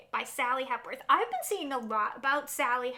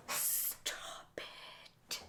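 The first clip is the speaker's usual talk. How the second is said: much softer, whispered stop it; disbelieving whisper; 12 dB quieter than usual. Real, not acted. Vlogger overjoyed at the pick, whispering. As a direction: whisper it, overwhelmed with delight. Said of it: "I get way too excited about this".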